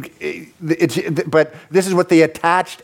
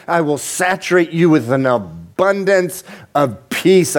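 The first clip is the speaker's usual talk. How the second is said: pleading voice of Jesus; 5 semitones higher than usual. Retold or imitated. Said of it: "He says".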